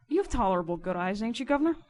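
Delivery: loud, rough-spoken questioning; insistent riverman voice; demanding informer. A narrator's reading. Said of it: "demanded the informer".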